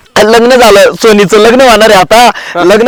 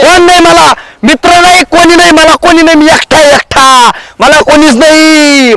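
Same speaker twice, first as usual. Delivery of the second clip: self-pitying wail; 6 semitones higher than usual. Acted. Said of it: "याला का आता दवाखान्यात?".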